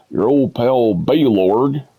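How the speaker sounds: BALORG drawn out slowly; slow, quoted "Balorg"; game character's pronunciation. Retold or imitated. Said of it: "you hear the guy go".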